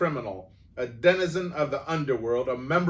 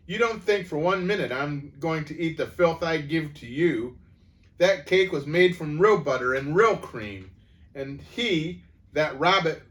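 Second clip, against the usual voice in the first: higher, louder outraged rant; furious tirade; 8 semitones higher, 9 dB louder than usual. A narrator's reading. Headmistress denouncing the cake theft, furious. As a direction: pound out the charge.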